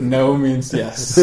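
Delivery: slow, low creepy murmur. Pretend. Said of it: "You sounded like a, such a big rapist now".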